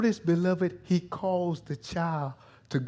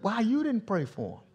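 frustrated; 7 semitones higher than usual. Acted. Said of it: "I don't want God frustrated with me".

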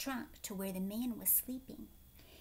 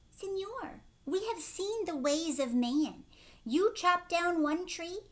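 lightly voiced monkeys, louder and urgent, fading to a hush; a troop of monkeys pleading, dropping to a whisper at the end; warning monkeys; 5 dB louder than usual.

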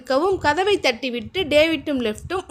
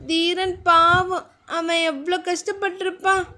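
inner conscience voice; 4 semitones higher than usual. A narrator's reading. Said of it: "தன் மனசாட்சி கேள்வி கேட்கவும்".

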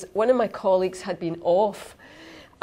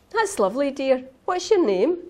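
sweet teacher voice; 7 semitones higher than usual. Acted. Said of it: "supply teacher speaks in story".

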